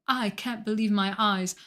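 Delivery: imitating a deadpan monotone read; mock monotone awe. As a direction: say it with no feeling at all, one level tone. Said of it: "but in the most monotone voice".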